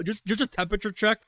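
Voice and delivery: mock imitation of a crypto guy's phrase; a light mocking echo of a crypto pitch; mocking crypto bro. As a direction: parrot the phrase back with light scorn. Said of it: "never wanna hear a crypto person say shit like".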